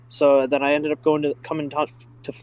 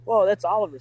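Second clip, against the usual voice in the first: higher, awed gasp of recognition; like spotting your hero in a crowd; starstruck whoa; 6 semitones higher than usual. Retold or imitated. Fan recognizing a famous rally driver, awed and high.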